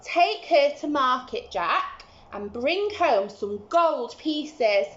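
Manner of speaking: stern mother giving orders; mother's voice. Acted. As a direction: tell Jack firmly what to do. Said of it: "Jack's mother said".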